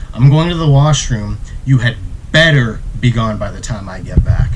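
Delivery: grave, deliberate ultimatum; telling the mafia man to leave, serious; very seriously. Retold or imitated. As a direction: lay down the ultimatum dead serious. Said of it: "very seriously".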